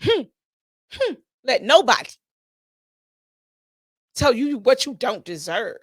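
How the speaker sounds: impress it on them gently; lecturing my babies. Retold or imitated. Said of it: "explain to my babies".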